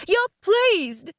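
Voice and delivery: high-pitched repeated accusation; accusing shout. A narrator's reading. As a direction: shout it at him in outrage. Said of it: "I shouted at him".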